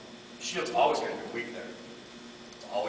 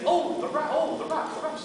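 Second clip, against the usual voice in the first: mishearing friend; 14 semitones higher than usual. Retold or imitated. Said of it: "He said".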